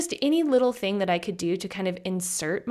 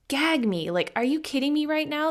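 mock disgust; 7 semitones higher than usual. Disgusted reaction to coaches.

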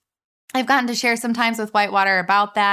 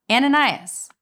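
raised, higher call of a name; 5 semitones higher, 4 dB louder than usual. A narrator's reading. The Lord calling to a believer in a vision, calling out. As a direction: call the name out, lightly projected. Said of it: "spoke to him in a vision and calling".

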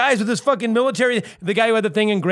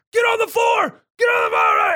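cops yelling; 13 semitones higher than usual. Retold or imitated. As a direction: bark it like a SWAT officer. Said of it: "and they're like".

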